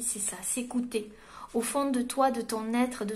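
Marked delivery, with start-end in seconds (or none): 0.0-1.1 unvoiced hushed whisper; soft whispered aside. Real, not acted. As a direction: whisper it as if to yourself.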